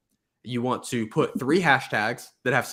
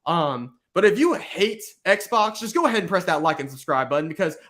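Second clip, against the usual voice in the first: raised-pitch promo for likes and subscribes; rally viewers like an upbeat short-video host; YouTuber hook; 5 semitones higher, 4 dB louder than usual. Acted. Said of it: "you could be like".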